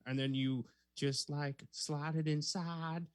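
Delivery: hammed-up Aussie drifting into Southern belle; Australian accent, slipping Southern. Second audition for his co-host, Aussie accent sliding Southern. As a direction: attempt an Australian woman and miss. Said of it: "I went Southern Belle on that time".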